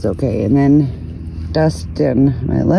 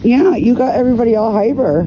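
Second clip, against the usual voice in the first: high pet talk; 8 semitones higher, 3 dB louder than usual. Real, not acted.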